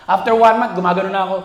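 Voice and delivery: ordinary delivery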